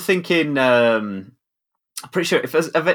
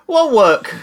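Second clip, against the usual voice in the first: incredulous; 8 semitones higher, 4 dB louder than usual. Real, not acted. Incredulous challenge repeated.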